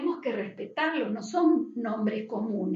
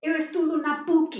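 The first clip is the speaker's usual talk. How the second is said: lightly voiced Brazilian Portuguese, usp as one word; 3 semitones higher, 4 dB louder than usual. Teacher quoting a Brazilian student for the class, in Brazilian Portuguese. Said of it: "Ellos dicen".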